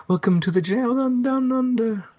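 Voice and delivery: hammed-up Aussie welcome; Australian accent. Mock Australian greeting.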